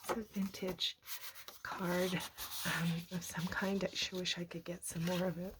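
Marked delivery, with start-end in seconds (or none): none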